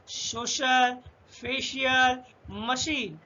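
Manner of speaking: सोशल, फेशियल, मशीन with a clear SH; सोशल, फेशियल, मशीन spaced out, each carrying SH; SH sound. Shown as a demonstration. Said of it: "ये वाला शा का pronunciation".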